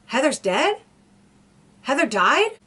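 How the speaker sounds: as if hearing the news for the first time; imitating the suspect's sudden shock; shocked disbelief. Suspect learns girlfriend is dead.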